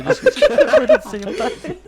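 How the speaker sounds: cracking up mid-sentence; high laughing voice. Real, not acted.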